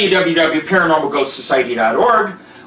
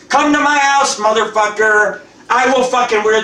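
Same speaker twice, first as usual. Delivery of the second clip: defiant challenge; 5 semitones higher than usual. Real, not acted. Daring his death threateners to come, a raised defiant challenge. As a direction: throw the dare straight at the caller.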